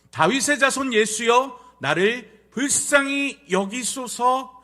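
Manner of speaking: loud, slow scripture cry, held in check; restrained calling out. Shown as a demonstration. Preacher reads the blind man's call, loud but restrained. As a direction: call out loudly but politely, in measured words. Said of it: "저는 이렇게 얌전히 불렀지만".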